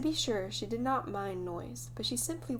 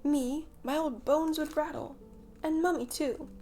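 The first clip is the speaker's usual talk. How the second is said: high, louder mock protest; hammed-up old-bones dismay; mock scandalized; 7 semitones higher, 4 dB louder than usual. A narrator's reading. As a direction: pretend to be shocked. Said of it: "pretended to be scandalized".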